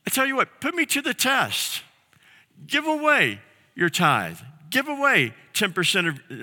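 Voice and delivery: a hint of a fatherly God asking to be tested; God pleading. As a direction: coax them to trust you. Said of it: "he says".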